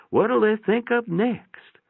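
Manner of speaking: put-on high, slow old woman's voice; a high, slow, marvelling old mother; elderly mother. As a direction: wonder it out like a frail old lady, slowly.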